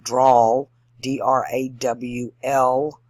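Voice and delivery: drawn-out, emphatic drawl; slow Southern drawl. Shown as a demonstration. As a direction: drag out draw and drawl, loudly. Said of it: "they talk slowly".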